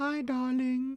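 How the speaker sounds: put-on very high, sweet voice with British accent. Someone asks to be spoken to sweetly like Sharon Osbourne; sweet Sharon Osbourne voice. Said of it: "sweet in her beautiful little British".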